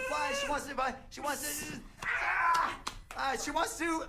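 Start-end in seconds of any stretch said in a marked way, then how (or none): 2.0-2.8 high, loud startled "Ah!"; a quick surprised cry; sudden exclamation. Acted. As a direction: yelp as it clicks. Guesser reacts mid-charades.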